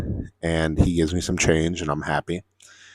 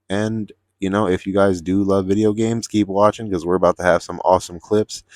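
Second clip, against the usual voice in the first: upbeat outro; 3 semitones higher than usual. Real, not acted. To viewers who love games, an upbeat hyped outro. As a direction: pump up the audience.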